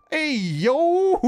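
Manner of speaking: excited yell like a voice actor losing his cool; hyped-up slip. Retold or imitated. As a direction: suddenly break into a pumped-up shout mid-calm. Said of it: "when he gets really hyped up about something".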